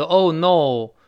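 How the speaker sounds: "Oh no" with pure o vowels, no glide; mispronounced Oh no. Shown as a demonstration. Teacher warns learners off a wrong reading, Oh no with flattened diphthongs. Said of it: "不要读".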